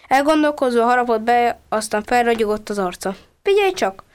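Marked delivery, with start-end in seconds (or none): 3.4-4.0 excited call. Acted. Boy bursts out with idea.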